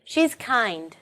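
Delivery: kind stressed clearly. Shown as a demonstration. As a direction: lean on kind in She's kind. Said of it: "so we should stress it clearly".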